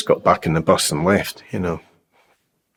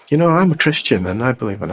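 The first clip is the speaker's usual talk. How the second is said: higher-pitched mimicked Australian; Australian accent; 4 semitones higher than usual. Australian stranger kneels down to share his faith, imitated Australian accent. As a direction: imitate an Australian introducing himself. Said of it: "in an Australian accent".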